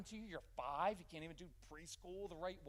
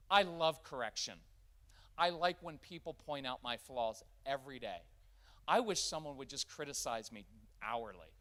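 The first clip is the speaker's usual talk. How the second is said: sarcastic; 6 dB louder than usual. Real, not acted. Sarcastic claims about loving criticism.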